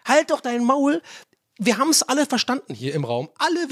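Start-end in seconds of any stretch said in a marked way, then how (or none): 0.1-1.0 exasperated inner rant. Retold or imitated. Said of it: "Und ich denk mir so".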